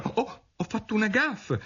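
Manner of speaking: high-pitched exclamation from Alice; startled "oops" cry; dismayed cry. A narrator's reading. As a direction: blurt it out high, alarmed at the blunder. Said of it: "gridò di nuovo Alice".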